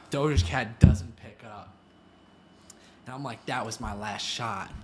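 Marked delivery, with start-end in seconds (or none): 3.5-4.7 low, soft, defeated retelling; resigned mock defeat; dejected. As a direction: say it deflated, dropping low and quiet. Retold defeat after declined call.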